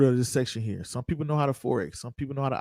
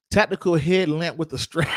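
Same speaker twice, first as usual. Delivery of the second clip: calling out a username loud; shouting a name; 3 semitones higher, 4 dB louder than usual. Real, not acted. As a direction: announce the donor with a shout. Reads out a donor's name.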